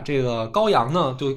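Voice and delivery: ordinary delivery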